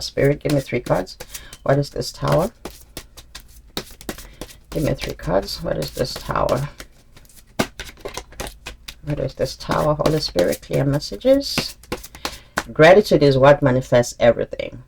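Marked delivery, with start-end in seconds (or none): 0.0-11.8 softly asking Spirit for guidance; quiet invocation. Real, not acted. Asking Spirit while drawing cards.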